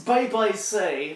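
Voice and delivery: put-on rural Austrian accent. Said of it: "sounds like a country Austrian person".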